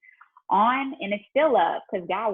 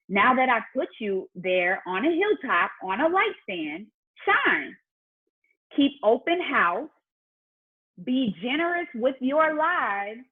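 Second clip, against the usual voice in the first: scripture reading. Acted. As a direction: read the verses like a sermon building. Reads scripture to audience.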